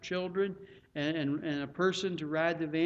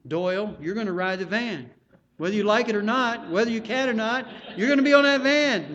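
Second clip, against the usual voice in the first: loud, higher mock order building to a shout; bossy telling; 4 semitones higher, 8 dB louder than usual. Pastor ordering Doyle onto the van, mock bossy shout. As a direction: lay down the law, building louder. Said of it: "I'm not telling you".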